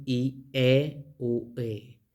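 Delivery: "i, e, u, e" vowel by vowel; pronunciation demo. Shown as a demonstration. Teacher giving the Koine Greek pronunciation, vowel by vowel. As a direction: sound out each of "i, e, u, e" separately. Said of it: "nos da la pronunciación".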